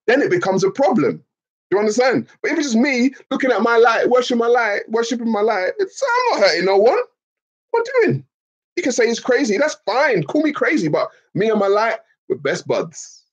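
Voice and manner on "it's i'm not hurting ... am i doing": higher, half-crying plea of innocence; mock tearful plea. Pleading with chat that worship hurts no one, mock sob. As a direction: whimper it like a wronged child.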